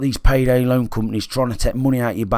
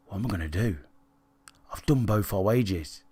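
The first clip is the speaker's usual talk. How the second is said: despairing inner thought; 2 semitones lower, 9 dB quieter than usual. Retold or imitated. Hiding in car, panicking inwardly.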